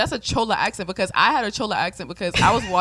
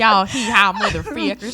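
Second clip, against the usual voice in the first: louder, slow echo of a hillbilly twang; mock Southern accent; 6 dB louder, slower than usual. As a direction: copy the country drawl while laughing. Echoes co-host's Southern mockery.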